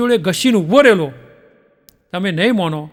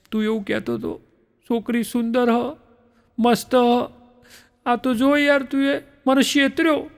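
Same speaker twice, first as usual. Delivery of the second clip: hushed complaint; 6 dB quieter than usual. Acted. Groom secretly grumbling to friend at wedding, hushed. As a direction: keep it down, a secret gripe.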